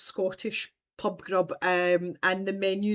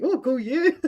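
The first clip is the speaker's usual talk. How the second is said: quoting her through a laugh; laughing, teasing praise; playful amused congratulation; 5 semitones higher, 6 dB louder than usual. Retold or imitated. Quoting Julia's amused reply.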